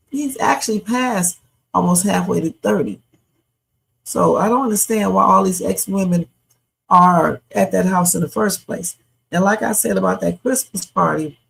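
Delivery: talking carefully around a sore tongue; sore bitten tongue. Real, not acted. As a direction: speak gingerly, tongue hurts. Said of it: "y'all gotta excuse my speech 'cause ... B I T I N G, my, you know, tongue".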